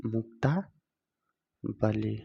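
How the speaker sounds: मुक्तावली very slowly, broken before वली; drawn-out मुक्तावली with a long pause inside; slow dictation. Shown as a demonstration. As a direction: stretch out मुक्तावली as if writing it. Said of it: "तो इसे हम क्या लिखेंगे?".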